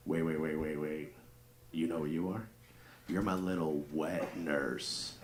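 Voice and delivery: soft, slow, low sultry line; slow seductive. Retold or imitated. Husband slowly purring his best line to his wife. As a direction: savour each word, slowly. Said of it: "I was like".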